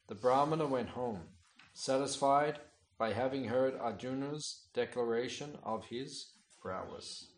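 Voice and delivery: measured, declaiming read of a sacred text; scripture reading. Acted. Teacher reading scripture aloud to his class, declaiming. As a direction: read the holy story out to the listeners.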